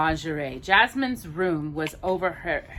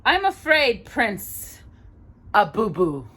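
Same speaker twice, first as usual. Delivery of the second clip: sneering vizier; 4 semitones higher, slower than usual. Acted. Villain mocks the prince's name.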